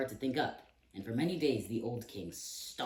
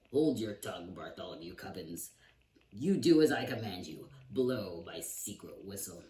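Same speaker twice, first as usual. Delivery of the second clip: stern command; 5 dB louder than usual. Acted. King commands Bartholomew.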